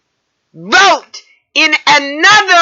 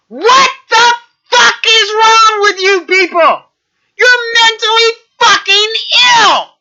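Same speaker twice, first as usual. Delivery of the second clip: angry; 5 semitones higher than usual. Real, not acted. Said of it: "really pissed".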